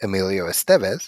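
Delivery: Estevez pronounced es-TEV-ez; second-syllable stress. Shown as a demonstration. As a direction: put the stress on the middle of Estevez. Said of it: "only knew it as he says".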